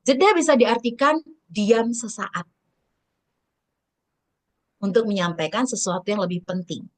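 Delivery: long silence after "diam sesaat"; pause for emphasis. Shown as a demonstration. Trainer demonstrates a pause, silence after "diam sesaat". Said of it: "mau kasih tekanan, tetapi kita diam dulu".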